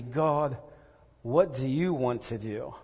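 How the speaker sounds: slow, humble prayer; sincere humble prayer; right question. Shown as a demonstration. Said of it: "It has to be".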